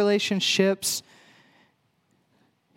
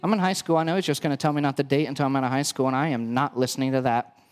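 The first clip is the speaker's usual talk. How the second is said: put-on sulky teen girl, quick and lower; 6 semitones lower, faster than usual. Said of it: "my best basic girl voice".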